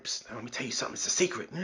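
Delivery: a hammed-up conspiratorial hush; mock secret whisper. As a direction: confide it like a bad-breath close talker. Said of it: "get in your face to tell you something".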